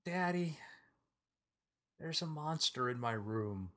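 a frightened little daughter; scared little girl. Acted. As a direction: daughter calling her parents about a monster. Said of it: "She goes".

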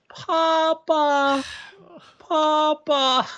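high, strained dying voice; dying plea. Acted. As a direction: croak it out with the last breath. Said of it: "reaches a hand up and goes".

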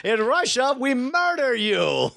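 slow, menacing mock Russian accent; heavy russian accent menace. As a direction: Yakov Smirnoff style Russian accent, darkly. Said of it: "dark reboot of Yakov Smirnoff".

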